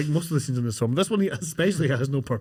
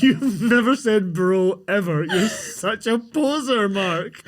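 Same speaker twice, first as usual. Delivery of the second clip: slow, laughing teasing jab; laughing mock scolding; 5 semitones higher, much slower than usual. Friend teasing Mark for saying bro, laughing slowly. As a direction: tease him through laughter, drawing it out. Friend mocks Mark's fake slang.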